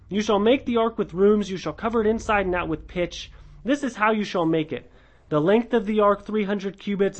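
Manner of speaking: measured, formal Bible reading voice; scripture reading. Acted. Teacher reading Genesis to the study group, formal scripture reading. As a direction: read the passage out with gravity. Reads Genesis passage aloud.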